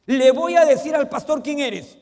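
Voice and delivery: hammed-up jealous spouse threatening exposure; mock threat. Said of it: "algunos dicen".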